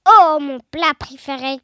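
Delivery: low, growling monster; Gruffalo qui grogne. A narrator's reading. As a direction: growl it deep with greedy relish. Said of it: "grogna le Gruffalo". (grosse voix grave de monstre qui grogne)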